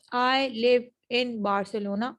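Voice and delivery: "in" said as "im" before Barcelona; slow demo of "I live in Barcelona" with im; assimilated model. Shown as a demonstration. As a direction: let in slide into im. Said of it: "in से m में हो गया".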